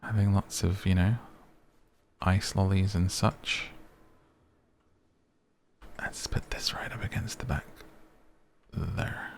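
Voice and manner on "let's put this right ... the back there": whispering. Real, not acted. Quiet placing, focused moment.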